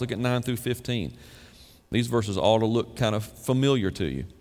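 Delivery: normal talking voice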